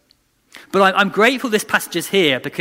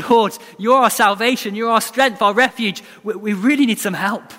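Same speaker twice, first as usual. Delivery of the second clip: a touch higher, earnest plea; lightly voiced hopeful prayer; hypothetical faithful prayer; 6 semitones higher than usual. Preacher voicing the prayer Israel should have said, earnest. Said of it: "their response is not to go".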